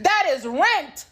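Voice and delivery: high, loud and slow through a laugh; laughing disbelief. Real, not acted. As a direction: laugh it off in shock.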